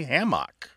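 hammock with a full MOCK ending; second-syllable pronunciation. Shown as a demonstration. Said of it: "who do say hammock".

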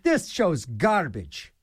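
mild mock disgust; grumbling listener. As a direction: drag it out like a fed-up listener. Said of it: "the guy's like".

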